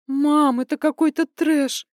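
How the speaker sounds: high and loud, stunned daughter; shocked outburst. Acted. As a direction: blurt it out in disbelief. Daughter outraged at father's affair.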